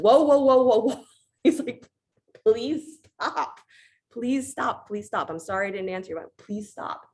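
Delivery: high, pleading voice of a frightened god; high frantic plea from Varuna; panicked ocean god. Retold or imitated. Ocean god begging Ram to stop.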